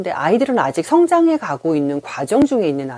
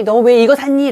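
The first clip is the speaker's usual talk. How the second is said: higher, louder reproach; mock scolding question; 7 semitones higher, 6 dB louder than usual. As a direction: scold the child for buying it. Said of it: "비난을 받은 아이". (아이를 꾸짖는 부모 흉내)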